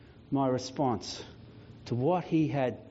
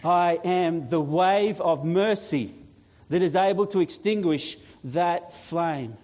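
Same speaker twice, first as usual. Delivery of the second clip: triumphant preaching; 2 semitones higher than usual. Acted. Jesus threatens to wipe out Death's power, triumphant preaching. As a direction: proclaim victory over an enemy, stretching key words.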